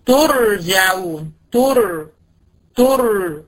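ترجعون slowed right down, then تر isolated; slow recitation. Shown as a demonstration. Teacher isolating تر for the student. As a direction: break off تر to show the heavy r. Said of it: "اهي ري ساكنة قبلها ت مضمومة".

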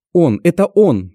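high, loud, slow horrified cry; terrified cry. Acted. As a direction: cry out in terror at the man. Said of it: "наконец кричит она".

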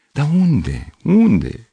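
high strained cry; trying to shout. A narrator's reading. Panicked, he tries to shout at the girl. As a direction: try to shout but it barely comes out. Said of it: "încercă să strige".

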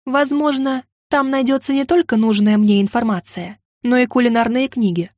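plain reading voice

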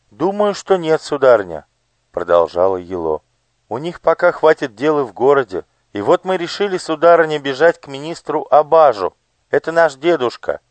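put-on high, eager boyish voice; young page. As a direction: play a nervous child explaining. Elo voiced. (испуганный мальчик-паж, высоко)

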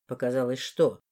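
low, probing man's question; low male voice. Acted. Morris presses her, low voice.

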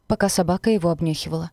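usual speaking voice

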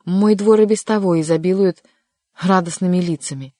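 loud, sarcastic grumbling; mock them in loud annoyance; vexed. A narrator's reading. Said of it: "досадливо повернулся к нему спиной". (досадливо и громко, с сарказмом)

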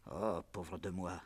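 slow lament. Acted. Father laments.

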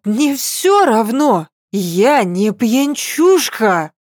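put-on high, drawn-out drunk protest; tipsy pleading. Drunk girl insists she's sober.

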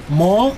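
"Mo" with the vowel sent through the nose; nasal vowel. Shown as a demonstration. Linguist showing the Otomí nasal vowel, nasal "Mo". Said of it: "con una A nasal".

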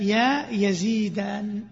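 very slow chanted line; recited verse. Shown as a demonstration. Teacher chanting the example to students, slowly.

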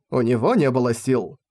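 ordinary delivery, nothing marked

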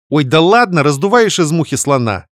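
high, loud breezy scoff; carefree snort. Acted. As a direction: brush it off lightly. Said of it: "беспечно фыркнула Вика". (беспечно фыркнув)

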